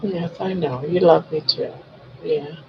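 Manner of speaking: soft doting pet talk; talking to a dog. Real, not acted.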